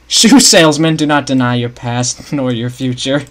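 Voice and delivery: laughing through the words. Real, not acted. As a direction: read it while cracking up. Reading chat joke, laughing.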